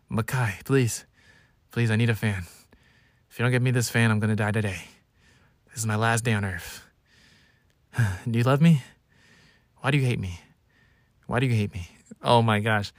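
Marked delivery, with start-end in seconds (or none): 0.1-11.9 lightly hammed-up, feeble guilt trip; drama-king pleading. Sick drama king guilt-tripping his little brother, mock feeble pleading. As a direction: plead as if on your deathbed. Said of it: "I am such a drama king".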